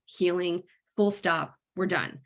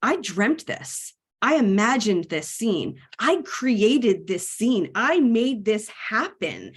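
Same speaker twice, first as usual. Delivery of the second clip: slow, stunned and amazed; a hushed, slow I-made-this-happen wonder; awestruck realization; 3 dB louder, slower than usual. Retold or imitated. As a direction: let it dawn on you slowly, then louder. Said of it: "And I was like".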